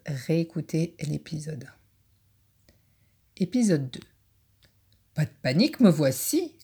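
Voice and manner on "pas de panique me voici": proclaiming badger. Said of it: "clame le blaireau".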